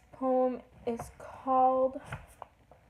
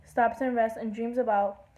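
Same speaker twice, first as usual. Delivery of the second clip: singsong verse in short phrases; lilting poem reading; poem recital. Acted. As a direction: read the poem aloud, each phrase falling at its end. Reads a poem aloud.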